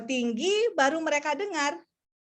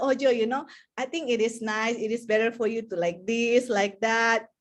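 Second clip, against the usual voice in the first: gentle suggestion; 3 semitones lower than usual. Retold or imitated. An adult kindly guides Joy, gentle and encouraging. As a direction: coax the child nicely, a touch lower. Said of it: "Kita akan lebih senang".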